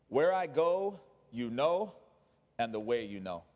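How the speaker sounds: measured phrases, sinking low at the end; matter of fact. Acted. Jesus telling the disciples the way, matter of fact. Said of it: "He says it so matter of fact".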